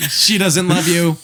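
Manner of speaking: slow, flat machine verdict; robot voice. Retold or imitated. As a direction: deliver it slowly like a cold AI. Mock AI blunt verdict.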